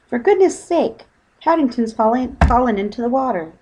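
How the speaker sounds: fretting mother, high and loud; anxious high call; alarmed. Acted. Mother panics, bear fallen in.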